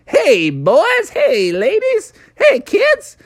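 high-pitched showy greetings; Punxsutawney Phil. Acted. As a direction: greet your fans as a cartoon groundhog. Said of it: "And he's like".

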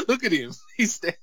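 high excited squeal with laughter; shrieking jackpot winner. Real, not acted. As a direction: squeal like you just won big. Excited reaction to wrestler.

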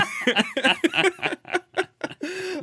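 high, sustained real laughter; helpless high laughing fit; long laugh. Real, not acted. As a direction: keep cracking up. Co-host keeps laughing.

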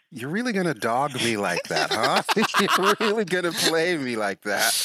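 laughing mock complaint.

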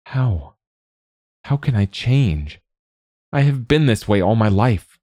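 put-on strained, pleading young man; confessing his shame, near breaking; anguished young warrior. A narrator's reading.

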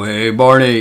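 lightly done Fred Flintstone voice; a hint of a big gruff cartoon caveman; low gruff voice. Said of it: "like, a very low, gruff voice".

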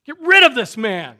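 high, very loud mob shouting; crowd crying out. Acted. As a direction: shout it as a whole baying crowd. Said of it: "Just the whole crowd's like".

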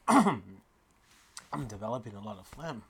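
slow, gravelly mock complaint; mock raspy. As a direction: drag it out like a sick man. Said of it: "I go".

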